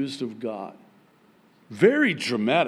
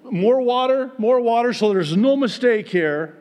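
louder, higher confident call; bold command; 9 semitones higher, 7 dB louder than usual. Retold or imitated. Elijah ordering more water poured, loud and bold. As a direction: boom it out with bravado. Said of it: "he says".

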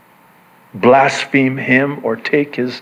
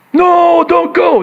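pleading disciples; 12 semitones higher, 3 dB louder than usual. Acted.

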